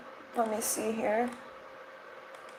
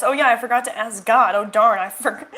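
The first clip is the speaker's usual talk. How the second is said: sarcastic; 4 dB louder than usual. Retold or imitated. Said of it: "Hashtag sarcasm".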